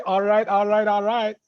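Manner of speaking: light southern drawl on a catchphrase. Shown as a demonstration. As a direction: give it a touch of southern drawl. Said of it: "give him a southern drawl".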